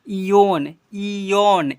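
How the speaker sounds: इयोन with a "y" glide, "ee-yon"; wrong y-glide in इयोन. Shown as a demonstration. Teacher trying a reading for pupils, इयोन with a y-glide. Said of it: "इयोन नहीं".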